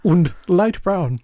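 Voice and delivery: slow mock-German captain; German accent. German captain ordering his chips, slow German accent. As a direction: draw it out in a put-on German accent. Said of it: "crispy in a German accent".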